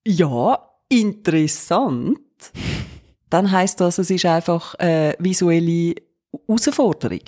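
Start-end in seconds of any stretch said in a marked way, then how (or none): 0.1-2.2 drawn-out, doubtful "interessant"; slow, unimpressed "Ja, interessant"; ironic interessant. Retold or imitated. Pretending politeness to a friend, slow ironic drawl. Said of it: "Und ich dann sage".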